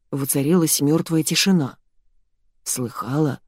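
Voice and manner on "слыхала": stunned hush. Acted. Husband stunned after dog speaks.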